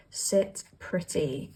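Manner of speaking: slow and soft, drawing out Sit pretty. Shown as a demonstration. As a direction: let Sit pretty linger, slow and quiet. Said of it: "Sit pretty is also what I'm hearing".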